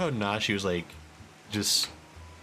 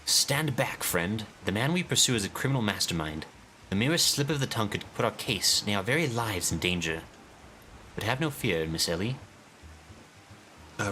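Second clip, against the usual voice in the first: pompous detective voice; 2 semitones higher than usual. Acted. Streamer voicing the inspector to his assistant, pompous and grand. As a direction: declaim like a self-important sleuth. Voices Hildebrand in game cutscene.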